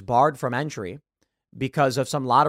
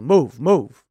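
acted yell, punched louder; half-raised yell of command; mock yelling; 6 dB louder than usual. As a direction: imitate a man yelling orders at someone. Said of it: "he starts yelling, yelling at you".

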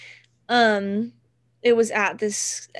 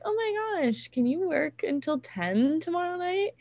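imitating the boss; 8 semitones higher than usual. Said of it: "my boss was like".

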